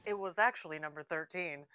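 low, soft narrator voice; hushed documentary narration; hushed nature documentary. Pretend. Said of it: "a narrator voice".

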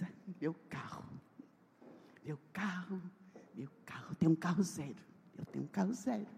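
soft, hushed, savoring "meu carro"; dreamy murmur. Retold or imitated. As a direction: whisper it like a treasured secret. Cooing happily over new car. (murmúrio baixinho e encantado)

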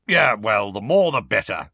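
gruff character voice, darkly weighted; grim old wizard voice; dark growl. A narrator's reading. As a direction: say it darkly, with some force. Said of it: "said Moody darkly".

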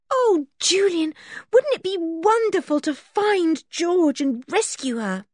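a lightly voiced thrilled girl; dreaming of rescue; excited Anne. A narrator's reading.

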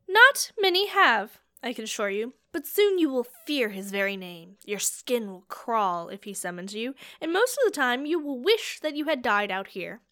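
loud, rough voice of a menacing captor; gruff captor. Acted. Gruff captor to Cornelius, claiming him loudly as prisoner. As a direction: lay down the law to your new prisoner.

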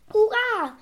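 high, loud hurrah with a falling end; cheering call. A narrator's reading. Doctor to his animals after the robbers flee, cheering call. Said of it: "rief der Doktor Eibolet".

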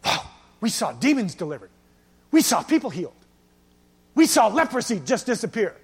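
acted amazed rejoicing, opening on a wow. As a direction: play returning disciples marvelling at what they saw. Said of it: "They came back rejoicing".

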